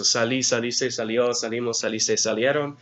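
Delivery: brisk recitation of verb forms. Shown as a demonstration. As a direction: rattle the endings off in one run. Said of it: "a little more quickly".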